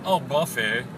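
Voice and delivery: mock Southern Belle accent; Southern Belle twang. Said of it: "that Southern Belle twang thing going".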